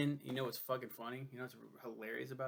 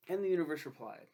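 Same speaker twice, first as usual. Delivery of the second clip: dramatic announcer; 4 semitones higher, 6 dB louder than usual. Acted. Dramatic opening of the read review.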